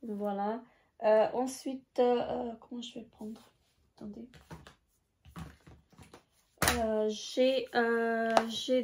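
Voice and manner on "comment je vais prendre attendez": softly, half to herself; quiet aside. Real, not acted. Vlogger talking to herself while juggling palettes, softly. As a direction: drop the voice to a murmur while fumbling.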